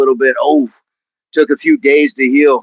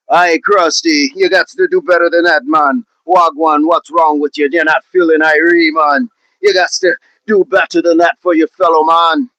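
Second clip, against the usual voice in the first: put-on Jamaican accent. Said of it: "I'm still working on me Jamaican".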